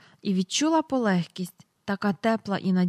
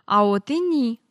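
засапано; 2 semitones higher, 4 dB louder than usual. A narrator's reading. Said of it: "засапано промовила міс Персімон".

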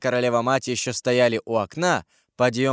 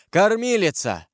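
crying out louder; 8 semitones higher than usual. A narrator's reading. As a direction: call urgently for help from the nurse. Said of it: "крикнул Карл громче". (громко, протяжно звать)

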